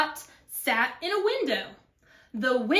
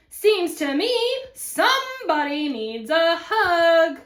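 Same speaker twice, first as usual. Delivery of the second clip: teasing, slightly louder cowboy voice; lightly voiced cowboy; 4 semitones higher, 5 dB louder than usual. Cowboy needling the cactus, lightly teasing. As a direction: play a mild teasing cowboy.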